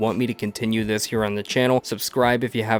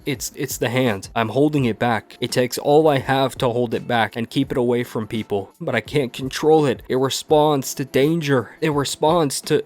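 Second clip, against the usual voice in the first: higher and louder, strained; desperate explanation; 4 semitones higher, 4 dB louder than usual. Acted. Hal explains the hand he can't control, desperate and strained. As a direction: plead with them to understand.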